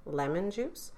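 "lemon juice" rising at the end as if asking; questioning intonation. Real, not acted. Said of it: "Are you asking me or are you".

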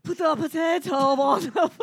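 drawn-out mock Irish; Irish accent. Comic attempting Irish on request, slow bad Irish. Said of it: "can you do an Irish accent".

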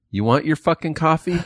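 high, sharp mock outburst; retold snap at a rude customer; snapping at customer. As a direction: fling it at him, fed up. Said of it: "I was just snapped".

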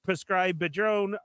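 "Prescribed Padrone" with an extra syllable before "drone"; mispronounced name. Real, not acted. Host reading chat names, garbling "Prescribed Padrone" with an extra syllable. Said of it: "he says it wrong every time".

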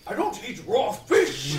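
slow, loud, laughing protest; indignant. Acted. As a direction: protest loudly while laughing. Indignant reply to the accusation.

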